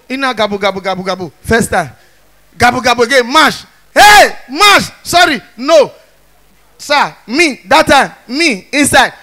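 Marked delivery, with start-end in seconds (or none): 3.9-5.9 a louder high protest at being stepped on; louder mock protest. Louder retelling of his protest to the principal. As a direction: call out the step sharply.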